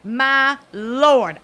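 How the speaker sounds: very slow, drawn-out, stunned; stunned exclamation. Retold or imitated. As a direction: stretch it out in disbelief. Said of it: "I'm over here like".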